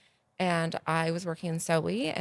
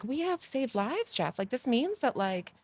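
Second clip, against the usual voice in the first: excitedly telling the dentist they saved lives; excited yelling; 6 semitones higher than usual. Retold or imitated. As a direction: burst out with the joy of saving lives. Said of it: "And I'm screaming".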